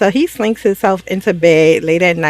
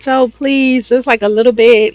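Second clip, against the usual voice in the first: higher-pitched mock plea; retold begging; 5 semitones higher than usual. Wife begging her husband for attention, mock pleading. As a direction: lightly act out a wheedling plea. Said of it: "begging him".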